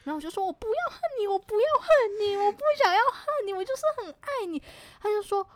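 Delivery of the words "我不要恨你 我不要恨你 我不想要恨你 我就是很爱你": high, pleading, near tears; tearful pleading. Retold or imitated. Begging her ex on the phone, high tearful pleading. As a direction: beg him not to leave, voice breaking.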